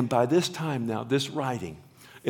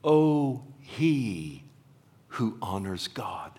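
reverent hush; much slower than usual. Shown as a demonstration. Preacher showing how the line should read, whispered. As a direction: reveal the name's meaning in a hush. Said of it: "we could write it or say it like this".

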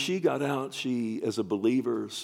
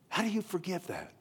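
much higher; 9 semitones higher, 4 dB quieter than usual. Real, not acted. Repeated, pitched much higher.

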